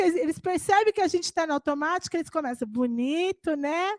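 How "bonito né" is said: soft mocking bonito, né; mocking echo. Children mock parents' automatic reply, soft teasing. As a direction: tease the parents' empty answer.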